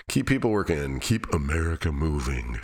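a lightly hammed-up commercial tagline; mock ad slogan. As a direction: read it like a cheesy TV ad slogan. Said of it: "that was the worst ad ever".

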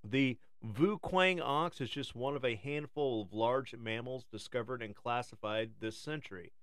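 nature documentary. Acted. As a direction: read it like a wildlife film. Reads a documentary script.

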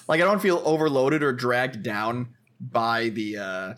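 glitchy robotic audio dropout. Real, not acted. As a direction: voice breaking up like a bad connection. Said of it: "oh, am I getting robotic again?".

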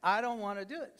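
put-on a touch of whiny sulking child; whiny kid attitude. Preacher to the congregation, mimicking a kid's mild whiny refusal. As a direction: pout it out like a kid refusing chores. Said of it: "Sounds like some of your kids".

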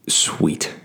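a quiet, voiceless little Sweet; whispered sweet. Retold or imitated. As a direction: breathe out Sweet as a soft whisper. Reacting to coach's sobering advice.

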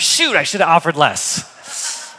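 slow, mock-kicking-himself aside; rueful regret. Buyer regrets his offer, slow and rueful. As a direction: groan it like a missed bargain. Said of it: "And I thought".

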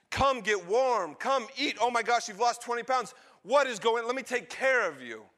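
high, loud, eager fussing; elated father. Acted. Father dragging his son upstairs, elated. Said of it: "Bill is elated that Ryan is home".

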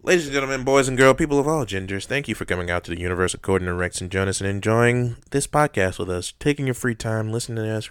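podcast host sign-off; announcer voice. Acted. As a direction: announce it to the audience.

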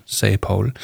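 ordinary delivery

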